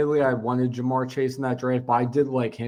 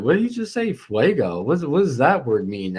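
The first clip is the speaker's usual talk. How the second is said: confused. Retold or imitated. Imitating a player puzzled by new slang, confused. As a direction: quote a baffled teammate, voice jumping up at first. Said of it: "they're, like, confused over it".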